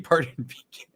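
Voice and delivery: reading, then cracking up on the last word; laughter cuts off the final word; can't keep straight face. Real, not acted. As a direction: break into a laugh before finishing. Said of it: "I can't even say it with a straight face".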